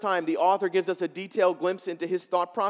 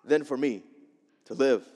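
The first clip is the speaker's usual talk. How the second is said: despairing prayer; 3 semitones higher, 6 dB louder than usual. Retold or imitated. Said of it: "He prays".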